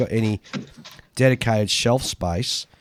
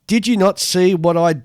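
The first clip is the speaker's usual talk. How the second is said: put-on Edinburgh accent; 4 semitones higher, 4 dB louder than usual. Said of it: "said in a broad Edinburgh accent".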